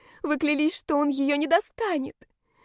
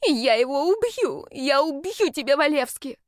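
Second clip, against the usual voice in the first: higher, louder screamed death threat; furious threat; 6 semitones higher, 4 dB louder than usual. Acted. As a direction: rage at the man who hurt her friend. Enraged friend attacking the villain.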